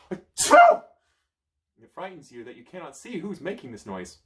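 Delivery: slow, loud, fearful telling; spooked, dragging the words out; frightened. A narrator's reading. Narrator telling the child of the fear, slow and loud.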